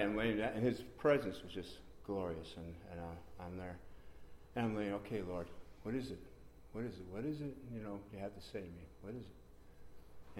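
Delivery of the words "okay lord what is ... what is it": soft retold murmur to God; quietly ask, fading to a whisper; re-enacted private questioning, trailing away; hushed prayer. Acting out hushed prayer while lying down.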